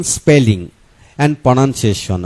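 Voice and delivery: the English words stretched out slowly; slow careful title. Real, not acted. Presenter announcing the spelling chapter title to viewers, slow and drawn out. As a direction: say the English heading slowly, word by word.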